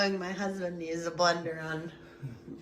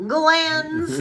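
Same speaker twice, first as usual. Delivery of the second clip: mock horror shout; 8 semitones higher, 7 dB louder than usual. Spooky punchline after scary question.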